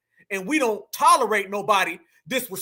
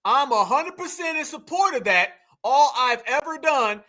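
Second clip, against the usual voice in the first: mocking repeat; 3 semitones higher than usual. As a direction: throw his words back at him, leaning on \"support\". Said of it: "And I see what you're doing there".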